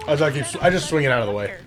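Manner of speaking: talking between crunchy bites; chewing chips while talking; crunching chips. Real, not acted. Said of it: "Sorry for the crunching".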